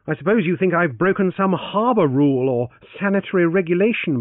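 high, loud ironic chatter; Francis, breezy and ironic. Acted. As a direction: brush off the officials with high, loud ease. Francis bantering with officials.

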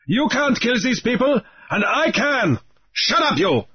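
put-on taunt, then snap at the girl; Raoul threatening. A narrator's reading. Pirate Raoul taunts Grief and silences Namu, menacing.

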